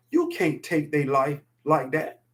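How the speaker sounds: slow, choked-up words, fighting back feeling; a father holding back real emotion; emotional. Real, not acted. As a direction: let the emotion catch in the throat, slowly. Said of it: "'cause I get emotional".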